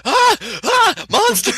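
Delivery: very high, loud comic shrieks; hammed-up scream of alarm for a laugh; mock monster scream. Player jokingly voicing the Easter Bunny mascot, mock screaming. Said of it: "So it's just facing your direction going".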